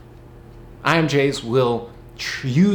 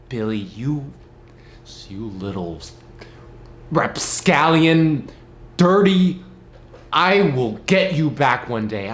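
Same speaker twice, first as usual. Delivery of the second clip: mock grudge threat. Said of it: "I think to myself".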